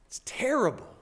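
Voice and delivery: hushed, breath-only whisper; awed whisper. Acted. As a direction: drop suddenly to an awestruck whisper. Preacher voices the disciples' awe.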